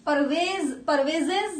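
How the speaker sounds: "परवेजेस" said with an added -es syllable as a wrong example; sounding out names. Shown as a demonstration. Teacher sounding out "परवेजेस" to show it sounds wrong. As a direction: stretch "परवेजेस" to show how awkward it sounds. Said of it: "परवेजेस नहीं अच्छा लग रहा".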